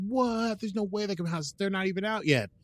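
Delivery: high, loud mock astonishment; acted disbelief. Two excited crewmates learning of new gadgets, in acted disbelief. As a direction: exclaim it in high-pitched incredulity.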